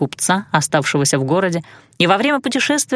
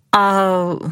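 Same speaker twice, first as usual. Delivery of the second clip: breathy whisper. A narrator's reading. Heroine cut off, hesitant.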